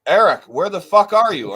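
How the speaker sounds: imitating a friend's alarmed shout; mock worried yell. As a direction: call out like a frantic friend. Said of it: "Tim's like".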